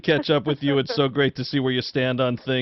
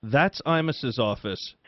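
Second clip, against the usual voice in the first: slow, grave warning; very serious; slower than usual. Retold or imitated. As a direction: drop the smile and warn them off slowly. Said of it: "She got very serious".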